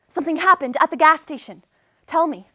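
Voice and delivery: mildly pressing, concerned mom; worried mother. Acted. Mom questioning her child in the car, mildly worried. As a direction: press for an answer with a touch of worry. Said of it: "she looks really worried about something".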